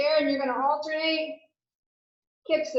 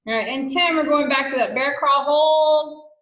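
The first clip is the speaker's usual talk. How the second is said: barking gym coach; 7 dB louder than usual. Real, not acted. Fitness coach cueing exercise.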